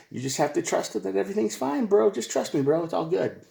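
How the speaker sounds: high, breezy trust me bro; mock shady partner. Cheating partner brushing off his girlfriend, high mock breeziness. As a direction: play it off like a dodgy boyfriend.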